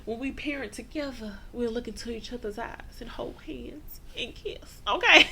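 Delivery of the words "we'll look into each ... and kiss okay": whispery mocking giggle; laughing whisper. Real, not acted. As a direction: giggle it under your breath. Mocking Fatima's romantic hopes.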